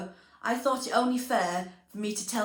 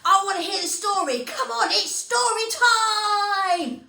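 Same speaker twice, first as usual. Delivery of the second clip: much higher, louder eager puppet voice; high pleading puppet voice; Christopher the guinea pig; 10 semitones higher, 6 dB louder, slower than usual. Acted. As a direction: beg for story time like an impatient little pet. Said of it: "What do you think, Christopher?".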